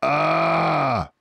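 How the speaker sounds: high, loud drawn-out ah; Boggis approving. Acted. Boggis agreeing with Bean, loud ah. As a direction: approve gruffly. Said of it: "said Boggis".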